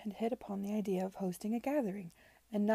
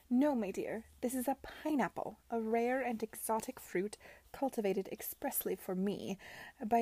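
lightly voiced grand aunt, pitying; condescending Lady Denham. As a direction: lecture with a touch of theatrical pity.

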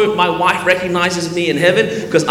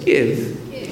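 soft, low British "Give"; attempted English accent on "Give"; 4 semitones lower, 3 dB quieter than usual. Shown as a demonstration. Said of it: "like a British person".

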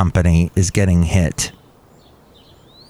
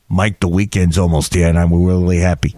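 much lower character voice; deep valet character, hammed-up; lowered comic parking attendant voice; low put-on voice; 5 semitones lower than usual.

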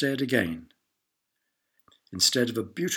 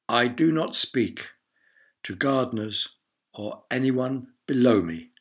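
snooty; 2 semitones higher, 3 dB louder than usual. Acted. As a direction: lord looking down his nose. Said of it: "lifting his nose even higher".

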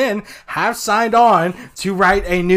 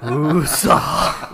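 calming breath; 5 semitones lower than usual. Pretend. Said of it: "Calm down".

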